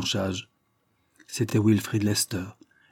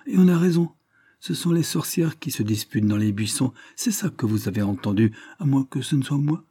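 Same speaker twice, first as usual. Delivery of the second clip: put-on sniffing old woman; 5 semitones higher, 4 dB louder than usual. Old woman, sniffing, excuses herself.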